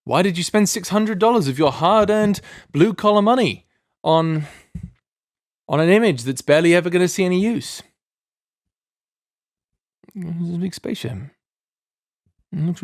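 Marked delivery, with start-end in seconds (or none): 0.0-7.8 mock viewer question. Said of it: "You're probably asking".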